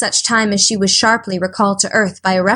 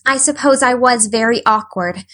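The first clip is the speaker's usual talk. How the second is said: apologetic; 2 semitones higher than usual. Acted. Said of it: "said Anne apologetically".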